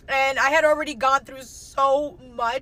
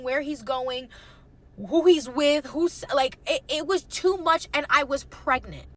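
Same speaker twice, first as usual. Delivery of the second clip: retold crying; 3 semitones higher, 3 dB louder than usual. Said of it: "I started crying".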